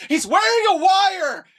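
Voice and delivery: high, loud and slow, fussy cartoon baby panic; Stewie shout. Retelling Family Guy, Stewie shrieking about the wire in a high voice. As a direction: shriek the warning like a prissy baby. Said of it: "Oh, for God's sakes".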